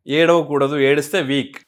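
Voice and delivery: ఏడవకూడదు, ఏడిస్తే వీక్ as a stern, dismissive saying; mock common belief. Shown as a demonstration. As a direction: parrot the old belief that ఏడిస్తే వీక్ with firm disapproval. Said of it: "ఏడిస్తే వీక్ కాదు".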